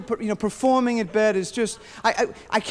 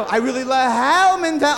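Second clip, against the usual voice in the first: Jerry Lewis. Acted. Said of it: "or I become Jerry Lewis".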